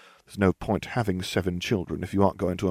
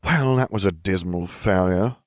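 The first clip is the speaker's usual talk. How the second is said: grumbling; 3 dB louder than usual. Acted. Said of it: "I grumbled".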